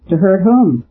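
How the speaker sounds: sharp question, whom pushed up high. A narrator's reading. Cutler to the priest, a sharp question stressing whom. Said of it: "Cutler said sharply".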